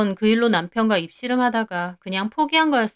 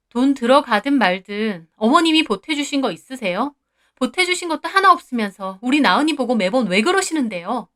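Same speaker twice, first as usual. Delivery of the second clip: raised voice; 3 semitones higher than usual. Acted. Wife confronting mother-in-law over her daughter, raised voice. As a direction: demand an answer, voice raised. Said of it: "제가 언성 높여 따지자".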